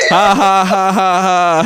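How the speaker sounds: high, spoken ha-ha laugh; mock laughter. Reading cousin's messages aloud, mock laughing. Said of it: "He said".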